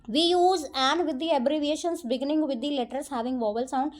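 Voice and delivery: reads the rule out word by word, very slow; slow rule reading. Acted. Teacher reading the rule to her students, slow dictation. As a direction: dictate it slowly to the class.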